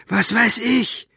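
high, slow villain purr; drawn-out, careless taunt. A narrator's reading. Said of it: "schnurrte er".

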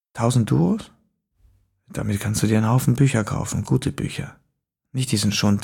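leise, raunende Fremdenstimme; düster und gedämpft aus dem Schatten; unheimlicher Fremder. A narrator's reading. Fremder lockt. (geheimnisvoller Fremder im Dunkeln, leise raunend)

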